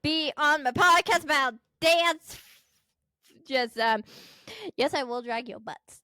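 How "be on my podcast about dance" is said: a touch of a loud, eager pitch; salesy pitch. Pretend. Daughter showing her own card pitch, slightly louder and eager. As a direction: push the card on them. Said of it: "I could just do this".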